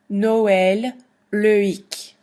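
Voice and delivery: Noël as no-el and Loïc as lo-ic, each vowel apart; teacher models split vowels; separate vowels. Shown as a demonstration. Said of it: "very clearly hear the O, E".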